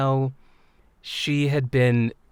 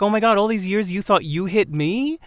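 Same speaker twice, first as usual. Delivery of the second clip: high, rising mock-tearful question; retold tearful disbelief; 7 semitones higher than usual. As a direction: imitate a woman astonished through tears, pitched up. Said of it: "then she started crying".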